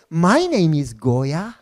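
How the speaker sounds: very slow, drawn-out disbelief, rising at the end; acted astonishment. Director discovering a shared name, mildly astonished. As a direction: draw out each word in dawning recognition.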